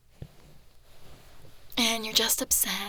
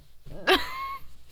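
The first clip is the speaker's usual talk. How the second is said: very high-pitched giggle. Acted. Girlfriend giggling while blaming her partner, very high laugh. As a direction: squeal out a laugh.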